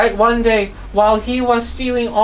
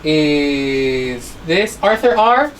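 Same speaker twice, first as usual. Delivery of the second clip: slow quiz question; 4 semitones lower, much slower than usual. Shown as a demonstration. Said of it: "quiz question drawn out".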